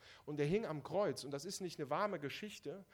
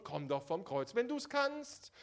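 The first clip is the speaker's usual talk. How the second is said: sneering mock jeer, rising high at the end; mocking taunt; 4 semitones higher, 4 dB louder than usual. Preacher voicing the scoffers mocking Jesus on the cross. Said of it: "den versucht man förmlich mit Hohn".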